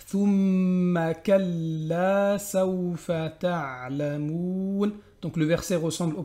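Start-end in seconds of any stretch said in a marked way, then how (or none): 0.1-4.9 chanted Hatta zurtumul maqabir, very slow; drawn-out chanted verse; slow recitation. Shown as a demonstration. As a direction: recite it like a Quran reader.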